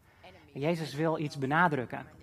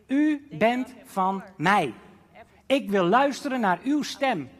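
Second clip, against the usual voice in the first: devoted prayer; 6 semitones higher, 6 dB louder, slower than usual. Acted. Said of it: "dan betekent het".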